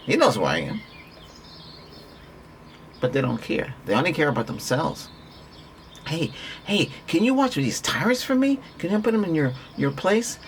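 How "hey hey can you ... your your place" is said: imitating a friend asking. Friend asking favor, acted quote.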